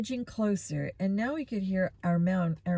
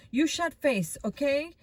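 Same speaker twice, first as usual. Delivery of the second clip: put-on higher, pushy Russian-accented retort; thick Russian accent; 7 semitones higher than usual. A narrator's reading. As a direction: snap back in heavy Russian-accented broken English. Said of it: "our man had a thick Russian accent".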